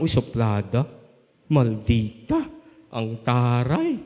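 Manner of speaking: mock snooty remark. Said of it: "Yung unang tingin, parang".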